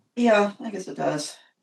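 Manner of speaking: faintly let-down, slightly disappointed agreeing tone. Asked if that answers the question, replying a little disappointed. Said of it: "you sound a little disappointed".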